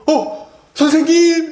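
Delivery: high gasp into a loud cry; acted high, loud outburst of joy; overjoyed recognition. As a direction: cry out as if suddenly seeing a beloved teacher. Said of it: "이렇게 탁 붙드는 거예요".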